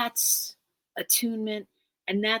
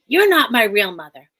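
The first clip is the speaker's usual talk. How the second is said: louder, flung-out accusing line; child's angry accusation; 2 semitones higher, 8 dB louder than usual. Retold or imitated. Adopted child lashes out at her mother, loud and accusing. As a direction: hurl it like a hurt teenager. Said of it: "eventually you're gonna get".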